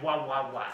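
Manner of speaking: "wah, wah, wah" with rounded W sounds; mock your own slipped accent on "wah, wah, wah"; exaggerated W sounds. Shown as a demonstration. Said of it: "Why am I saying it like".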